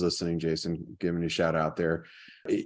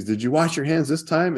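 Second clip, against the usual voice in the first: much higher exasperated asking; exasperated mom; 8 semitones higher, 3 dB louder than usual. Retold or imitated. Mom checking on Jason a third time, high exasperated voice. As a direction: pitch it up, fed-up mom. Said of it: "And she's".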